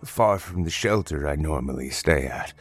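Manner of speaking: lightly voiced apologetic old man; polite old stranger. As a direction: gently plead as a humble old traveler.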